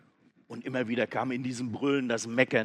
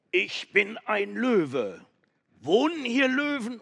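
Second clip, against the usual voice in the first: loud call; 10 semitones higher, 9 dB louder than usual. Acted. Goat shouting into the cave, loud. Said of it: "rief ganz laut".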